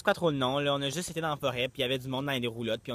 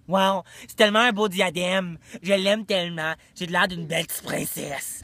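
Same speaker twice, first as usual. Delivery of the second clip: gushing princess; 3 semitones higher, 5 dB louder than usual. Pretend. Admiring tiara, princess role.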